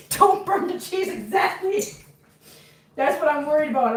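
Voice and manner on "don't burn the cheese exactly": panicked. Real, not acted. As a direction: sound the alarm over the cheese. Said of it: "You know why I'm panicking?".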